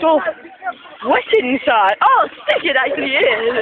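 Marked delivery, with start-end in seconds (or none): 1.1-1.9 helium voice. Real, not acted. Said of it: "we're all high on helium". 2.1-2.6 squeaky high helium voice. Real, not acted. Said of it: "we're all high on helium".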